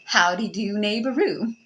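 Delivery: put-on playful Southern greeting, lightly accented; Texas swag. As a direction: toss out a mock Texan hello. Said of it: "with my Texas swag".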